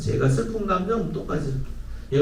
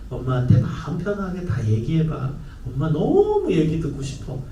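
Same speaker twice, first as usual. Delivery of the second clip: slow, lower, gently inviting; eager parent; 4 semitones lower than usual. Shown as a demonstration. Parent telling the child they love hearing them. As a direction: open your heart to the child, slowly. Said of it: "적극적 표현은".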